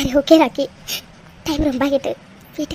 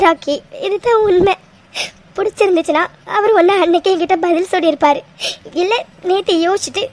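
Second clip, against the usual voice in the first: tearful sobbing. Acted. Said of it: "நீ இப்படி தேம்பி தேம்பி அழறதை".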